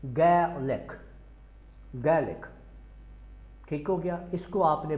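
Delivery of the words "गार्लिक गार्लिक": गार्लिक said as "gelik" without the r; गार्लिक like a British speaker, no r; English way, no r. Shown as a demonstration. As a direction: drop the r in गार्लिक. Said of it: "आर नहीं बोलना है".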